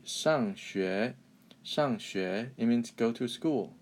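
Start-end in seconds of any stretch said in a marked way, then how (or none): 0.0-2.5 careful, measured "上学", falling then rising tone; slightly subdued teacher's "上学"; corrected pronunciation. Shown as a demonstration. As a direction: model "上学" with falling shang and rising xue. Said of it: "it should be".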